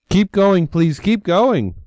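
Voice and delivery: high, loud anxious pleading; the ogre begs the goat to pass; nervous plea. A narrator's reading. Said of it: "Little Ogre whispered".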